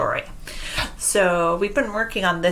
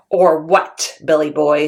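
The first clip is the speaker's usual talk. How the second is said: loud, menacing troll; taunting troll, loud; 3 semitones lower, 7 dB louder than usual. Acted. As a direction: growl the challenge like a troll. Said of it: "says the Troll".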